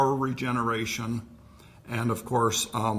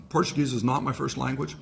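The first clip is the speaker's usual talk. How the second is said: laughing. Real, not acted. Laughs at own mispronunciation.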